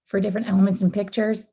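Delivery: hoarse, losing her voice. Real, not acted. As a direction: push through a worn-out hoarse throat. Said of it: "I'm losing my voice".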